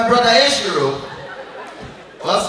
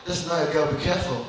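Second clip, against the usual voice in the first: hushed, lower warning; low quiet warning; 6 semitones lower, 5 dB quieter than usual. Retold or imitated. Bouncer warning the clubgoer about the woman, hushed. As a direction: lean in and warn him softly. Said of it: "he said, Come".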